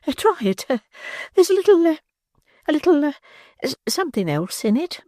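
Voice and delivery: very high, halting lady's voice; coy matron. Acted. Matron coyly offering the beadle the spiked medicine. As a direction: hesitate coyly over each word.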